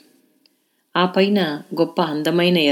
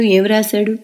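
a touch higher, pressing again; eager repeat; 4 semitones higher, 3 dB louder than usual. A narrator's reading. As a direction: ask again, still curious. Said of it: "ఉత్సుకతగా అడుగుతున్న". (మళ్ళీ ఉత్సుకతతో)

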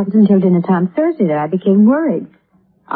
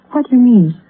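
sharp, higher alarmed question; 7 semitones higher, 3 dB louder than usual. Acted. Wife suddenly frightened by the detective's question, alarmed and higher. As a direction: she suddenly fears the worst.

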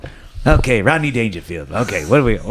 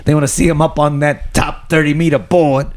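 cigar in mouth; 4 semitones higher than usual. Retold or imitated. Pitching Rodney Dangerfield diving movie.

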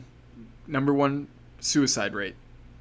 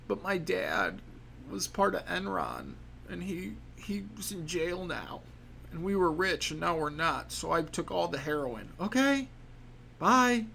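put-on whiny teen voice; 3 semitones higher, 4 dB quieter than usual. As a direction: mumble it like a sulky teen. Voiced troubled teen excuse.

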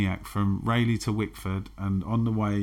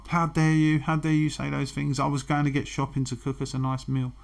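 half-hearted replay of the row with indignation; retold angry outburst; 4 semitones higher than usual. To his girlfriend over her fast-driving claim, a mild indignant shout. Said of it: "I lost my shit with her".

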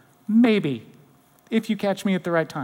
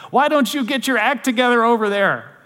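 raised, higher-pitched telling-off; mock scolding; 3 semitones higher, 3 dB louder than usual. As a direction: scold them as if calling across the room. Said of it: "so much different than the scolding".

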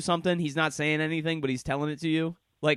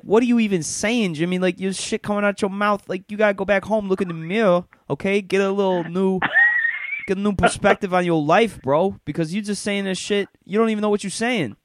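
higher, louder bro rant; Sammy chewing out Jimmy; 6 semitones higher, 4 dB louder than usual. Retold or imitated. Sammy telling his friend Jimmy off, higher and louder. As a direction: tell him off like a street-corner know-it-all. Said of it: "and you're like".

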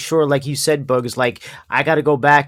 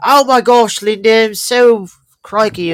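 hammed-up British-Aussie accent, higher and drawn out; mock English-Australian accent; 4 semitones higher, 4 dB louder, slower than usual. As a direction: fake English accent gushing like a caricature. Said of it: "You start talking with the accent".

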